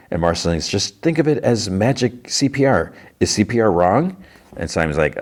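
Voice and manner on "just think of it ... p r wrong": teasing character voice. Retold or imitated. Marceline voiced in recap.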